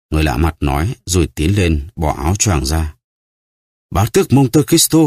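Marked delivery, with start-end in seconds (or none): 3.9-5.0 much higher, startled exclamation; shocked cry. A narrator's reading. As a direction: gasp out the name in shock. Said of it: "Đăng La kêu lên".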